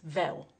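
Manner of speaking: vel with a clear V sound instead of W; vel, the old Cockney V for W. Shown as a demonstration. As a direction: say vel, biting the lip for the V. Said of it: "well would be pronounced as vel".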